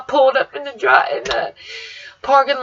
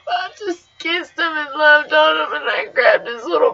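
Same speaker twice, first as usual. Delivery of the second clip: crying; 3 semitones higher than usual. Real, not acted. Crying over the body.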